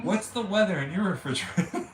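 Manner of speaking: words breaking into laughter; laughing. Real, not acted. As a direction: laugh through the question. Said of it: "I can't say it now".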